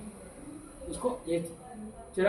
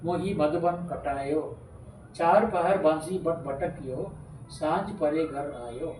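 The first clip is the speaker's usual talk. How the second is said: slow, melodic recital of a bhajan; recited devotional poem; poem recitation; slower than usual. Acted. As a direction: chant the verse devotionally. Recites the full Surdas poem.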